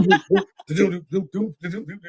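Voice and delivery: imitated slide. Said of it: "she just do".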